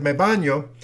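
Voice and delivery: quoting the traveler in Spanish; Spanish me baño. Retold or imitated. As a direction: say "Me baño" the Spanish way, may-BAH-nyo. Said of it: "he got up and he said".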